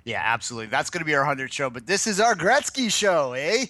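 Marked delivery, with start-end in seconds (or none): 1.7-3.7 higher hammed-up Canadian "eh"; Canadian accent. Puts the Canadian bit back on.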